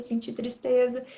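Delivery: usual speaking voice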